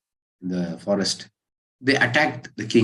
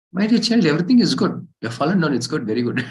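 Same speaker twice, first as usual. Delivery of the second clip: high, louder, lilting motherly reassurance; comforting mother; 7 semitones higher, 4 dB louder, faster than usual. Acted. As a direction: soothe a fallen child, pitched up high. Mother comforts crying child.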